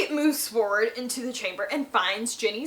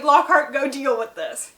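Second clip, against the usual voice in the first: mock order; 4 semitones higher, 8 dB louder than usual. Professors ordering Lockhart.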